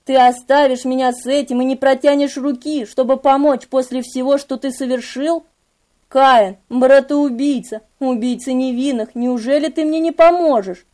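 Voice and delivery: a hint of a wounded, accusing demon; lightly voiced Memnoch, reproachful. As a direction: plead quietly, with restrained reproach. Memnoch pleads, reproaching narrator's character.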